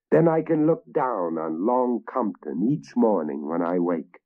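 a king savouring his future; boastful king. Acted.

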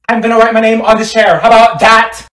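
loud, high outburst; defiant shout. Acted. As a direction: shout it to win the seat war. Defiant outburst over a seat.

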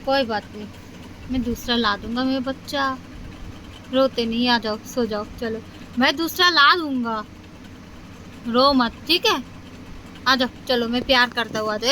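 soft, hushed comforting of a little one. Real, not acted. Mother soothing crying child at night. (रोते बच्चे को धीरे से पुचकारना)

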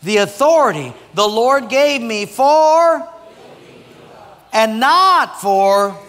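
slow loud reading with NOT held long and high; stress on not. Shown as a demonstration. Preacher leading the congregation in reading, slow and loud on not. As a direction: lean hard on not in and not for. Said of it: "Read it with me".

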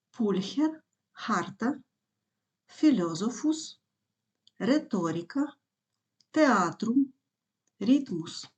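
"пульхер, харта" with KH, "філозофус" with F; "реторіка, театрум, ритмус" with simple R and T; Latin consonant digraphs. Shown as a demonstration. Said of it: "читаємо як х".

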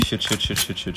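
whispered cursing. Real, not acted. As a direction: breathe the curses under fire. Panicked under fire, hushed curses.

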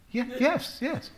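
high-pitched, hesitant imitated yes; worried agreement. Director agrees to an African accent before the board, worried, imitated. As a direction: mimic a nervous director reluctantly agreeing. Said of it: "he sort of went off worried".

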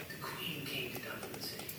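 put-on hushed, whispery go at Fergus's accent. Man recounting his dream of the Queen, whispered imitation of Fergus's accent. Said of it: "in this accent".

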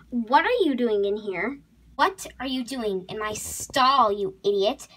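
angry scolding. Acted. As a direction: tear into an intruder. Horse scolds intruder in her stall.

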